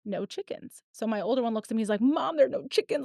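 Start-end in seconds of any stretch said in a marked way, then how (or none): 2.0-3.0 mildly imitated near-tears kid, a bit higher; mock a child about to cry; a touch of crushed-kid whine; devastated child. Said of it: "like, devastated, about to cry".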